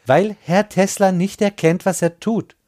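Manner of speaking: high, urgent plea; urgent Indian man. Acted. Indian man urges Bill.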